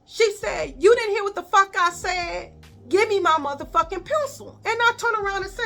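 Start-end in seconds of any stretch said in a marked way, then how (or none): 0.8-4.6 higher, louder angry demand; a teacher losing her temper; teacher cursing. Retold or imitated. Teacher to student over the pencil, angry higher demand.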